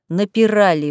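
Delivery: ordinary delivery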